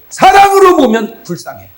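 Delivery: 사랑으로 stressed loud and high, falling on 불쌍해; preaching shout. Real, not acted. Preacher repeats to wives, loud emphatic preaching. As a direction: drive the point home.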